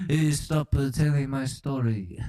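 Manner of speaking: peeved mock-French protest; comic indignant Frenchman; fake French accent. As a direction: object in a hammy French accent. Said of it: "That was a fake accent".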